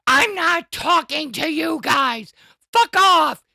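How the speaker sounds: high, loud retold yell; imitated yell. Streamer telling the Discord to quit pinging him, imitated yelling. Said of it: "he is yelling at the entire Discord".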